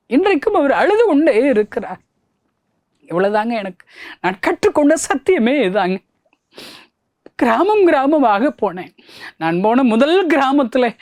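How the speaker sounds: high, impassioned testimony voice; rising preaching. Acted. Preacher telling how Jesus still weeps, impassioned. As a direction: preach it out, lifting the voice.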